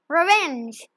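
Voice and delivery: a mild scornful dragon snort on revenge. Acted. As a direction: spit the word out with contempt. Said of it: "he snorted".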